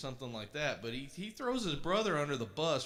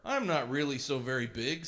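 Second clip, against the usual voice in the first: pleading goat; 9 dB louder than usual. A narrator's reading. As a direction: plead politely like a scared goat. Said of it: "said the middle-sized billy goat".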